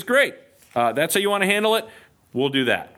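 sarcastic Great. Acted. Gideon answers the stingy officials: sarcastic. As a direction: toss off a sarcastic okay then. Gideon's curt reply voiced.

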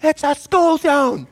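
high, stretched-out mad shout; angry yell. Retold or imitated. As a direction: re-enact yelling angrily at another driver. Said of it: "And I was mad".

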